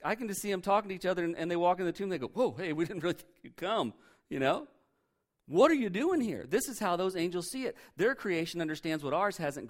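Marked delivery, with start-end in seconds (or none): 2.3-3.9 lightly voiced mocking angel; condescending angel. Angels greeting the women at the tomb, mock condescension. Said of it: "that was kinda condescending". 5.5-6.5 condescending. Retold or imitated. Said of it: "that was kinda condescending".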